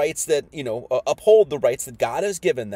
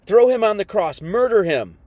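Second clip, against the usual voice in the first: mock mob yell; 3 semitones higher, 5 dB louder than usual. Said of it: "they're saying".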